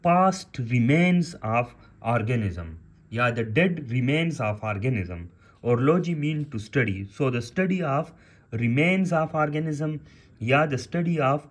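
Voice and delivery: definitions read out slowly for note-taking; teacher dictating the definition word by word; slow dictation. Shown as a demonstration. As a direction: spell out each phrase slowly for students. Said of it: "slow dictation of definitions".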